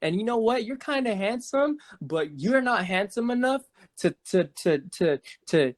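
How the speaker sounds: put-on high, loose, pushy drunk woman voice; imitating drunk woman. Storyteller imitating the drunk woman pushing her friend on him, high and pushy. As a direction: slur it like a tipsy stranger pressing a guy.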